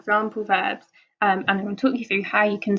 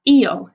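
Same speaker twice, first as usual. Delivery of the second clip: "io" with the weight on the O; stress on final O; 7 dB louder than usual. Shown as a demonstration. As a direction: lean on the O in "io", not the I. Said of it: "note that the accent is on the O".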